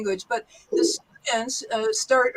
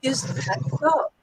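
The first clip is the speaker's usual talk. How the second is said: rising "Is that so?" asking for confirmation; slow curious rise; questioning confirm; 2 semitones higher, slower than usual. Shown as a demonstration. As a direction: ask it slowly, checking. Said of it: "you might say".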